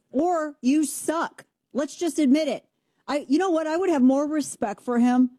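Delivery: mock her creaky voice; vocal fry imitation. Shown as a demonstration. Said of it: "I was imitating".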